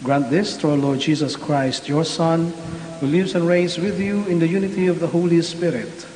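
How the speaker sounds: solemn, measured prayer voice; liturgical prayer. Acted. Priest leads liturgical prayer.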